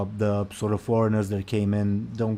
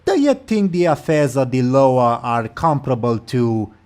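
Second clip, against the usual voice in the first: louder, scornful question; mocking troll lady; 2 semitones higher, 6 dB louder than usual. Troll lady mocking the goblin's loss, louder and scornful. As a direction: talk down to the little goblin. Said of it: "laughs at you and says".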